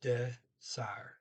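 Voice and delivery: "desire" broken into deh, SAR; syllable-by-syllable pronunciation. Shown as a demonstration. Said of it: "the E R toward the end as R".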